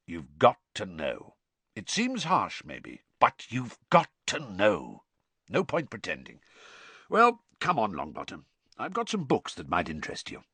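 lightly voiced stern teacher reading a lecture; emphatic, lightly acted old instructor; stern professor.

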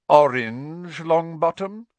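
high, loud, incredulous scolding; public scolding. A narrator's reading. Snape exposing Neville's ruined potion, scolding.

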